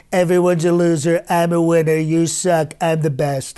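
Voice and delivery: lightly voiced boastful Trump; Donald Trump voice. Describing a Trump dream, a light boastful Trump voice. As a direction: brag like a hint of Trump. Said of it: "Donald Trump lucid dream is".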